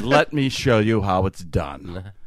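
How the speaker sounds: slow, low, self-important delivery; mock-pompous, drawn-out boast. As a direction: condescend like a grand old magician. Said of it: "real pompous".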